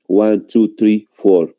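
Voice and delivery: counting with "three" said as tree; count, giving "three" a T instead of TH; mispronounced three. Shown as a demonstration. Teacher shows the learners' faulty count, mispronounced three. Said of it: "Si pronuncio de esa manera".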